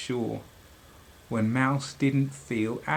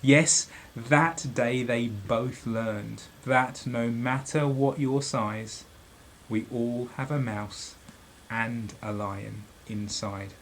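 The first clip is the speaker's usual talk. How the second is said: story narration; 3 semitones lower than usual. A narrator's reading. Reads the story ending.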